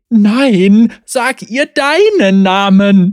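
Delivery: very slow, loud, drawn-out, wailing cat yowl. Von Jip the cat, while the dean buries her face in his fur, yowling. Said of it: "Jaulte Von jip".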